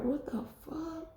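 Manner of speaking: a stunned, breathy whispered curse; shocked whisper. Retold or imitated. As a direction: breathe it out in disbelief, slowly. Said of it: "like, shocked".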